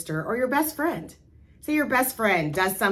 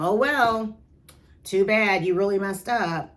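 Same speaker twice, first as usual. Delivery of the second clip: dismissive scolding; 5 dB louder than usual. Retold or imitated. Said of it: "would you say to them".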